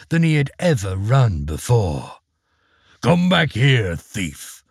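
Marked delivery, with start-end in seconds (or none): 3.0-4.6 ogre's cry. Acted. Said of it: "cried the ogre".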